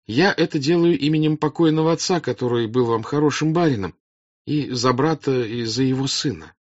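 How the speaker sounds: high, loud appeal to a crowd; earnest princess. Acted. Princess offers bread and homes to peasants, earnest appeal.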